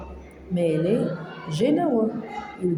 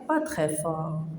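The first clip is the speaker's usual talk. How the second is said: soft echo; 4 semitones lower, 5 dB quieter than usual. Shown as a demonstration. Echoes poem's "not very loud.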